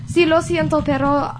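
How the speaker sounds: careful attempt at a Spanish accent. Shown as a demonstration. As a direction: put on your best Spanish accent. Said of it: "I'm not using my accent".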